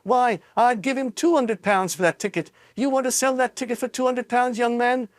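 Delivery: high woman's voice; woman bidding. A narrator's reading. A woman outbids, high-pitched. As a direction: outbid him brashly.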